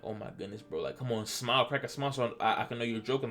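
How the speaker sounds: nervous stammer, fading soft; stuttering. Retold or imitated. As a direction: stammer it out scared. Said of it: "Like, I'm stuttering".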